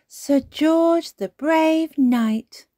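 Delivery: put-on high, loud, stretched-out child voice; interrupting. A narrator's reading. Peppa interrupting Granny's story again, excited. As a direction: butt in proudly with a new hero. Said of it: "Peppa interrupted again".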